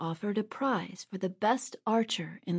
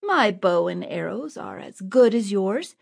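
angry; 5 dB louder than usual. Acted. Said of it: "That made Robin angry".

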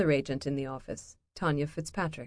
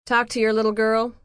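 firm; 6 semitones higher, 8 dB louder than usual. Acted. Tanya speaks to Steve.

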